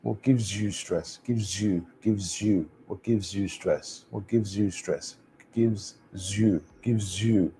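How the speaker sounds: careful connected-speech drill on "gives you"; pronunciation demo. Shown as a demonstration. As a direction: link "gives you" into "givz-you", repeated evenly. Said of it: "let's think about that pronunciation".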